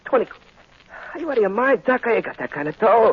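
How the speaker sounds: high, loud disbelieving yell; furious shout at the surgeon; outraged shout. Acted. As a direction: explode at the price. Gangster balks at price.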